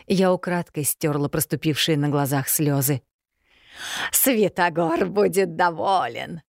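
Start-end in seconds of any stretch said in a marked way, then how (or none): 4.1-6.4 put-on slow, relishing old-witch voice; gloating witch. A narrator's reading. Old witch Yaga gloats to Elena, slow and relishing. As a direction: savour each word like a pleased hag.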